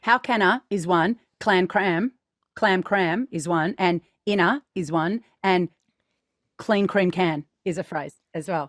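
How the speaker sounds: "how can a" then "clam cram" said as chunks; phrase chunking. Shown as a demonstration. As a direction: split "clean cream can" into its own phrase. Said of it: "find the shape for the phrases".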